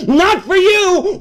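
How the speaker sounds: "Not for you" yelled high and slow; shouted. Retold or imitated. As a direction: hammer "Not for you" home loudly. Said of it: "is screaming to you".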